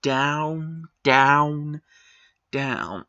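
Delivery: a falling down down down; descending down. Real, not acted. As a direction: let the three downs sink like a falling elevator. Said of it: "basically went".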